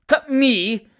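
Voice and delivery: high, loud indignant screech; screamed outrage. A narrator's reading. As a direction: screech as an affronted spinster. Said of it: "screamed the spinster aunt".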